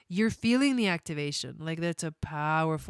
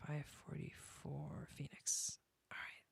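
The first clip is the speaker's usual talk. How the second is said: whisper; 4 semitones lower, 20 dB quieter than usual. Real, not acted. Reading chart data to herself.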